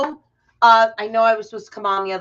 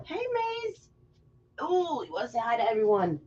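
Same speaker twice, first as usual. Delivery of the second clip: pet talk; 6 dB quieter than usual. Real, not acted. Greets her dog on stream.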